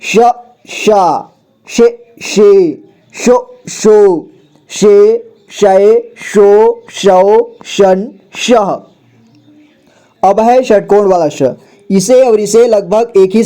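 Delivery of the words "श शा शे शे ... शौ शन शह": slow, sing-song syllable recitation; slow teacher drill chant. Shown as a demonstration. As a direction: chant each syllable out for the class. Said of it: "श का देखिए".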